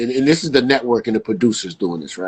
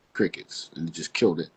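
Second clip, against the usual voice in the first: breathy whispered echo of the word crickets; 9 semitones lower, 11 dB quieter than usual. Retold or imitated. Host telling a friend the ratings died, whispering. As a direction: whisper crickets like an empty room. Dramatic pause on dead ratings.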